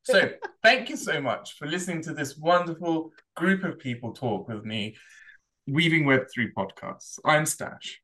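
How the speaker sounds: talking with mouth full. Real, not acted. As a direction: speak through a mouthful of donut. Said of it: "with your mouth full".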